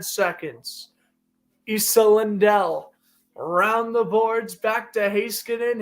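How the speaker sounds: live hockey play-by-play. Acted. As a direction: call the game like a broadcaster. Plays a hockey game call.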